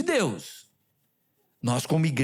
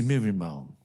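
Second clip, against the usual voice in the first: respectful; 9 semitones lower than usual. Retold or imitated. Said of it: "e falei com todo respeito".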